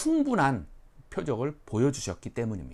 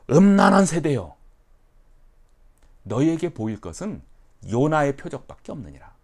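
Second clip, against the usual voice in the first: loud, higher scolding; stern rebuke; 5 semitones higher, 10 dB louder than usual. Retold or imitated. Jesus rebuking scribes, loud stern judgment. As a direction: pronounce judgment. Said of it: "무엇이라고 반응을 보이냐면".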